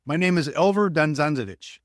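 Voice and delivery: put-on European accent. Caller introducing himself to the ticket seller, imitated European accent. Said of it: "European accent guy".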